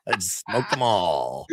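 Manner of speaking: gravelly voice. Real, not acted. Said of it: "totally cooked voice".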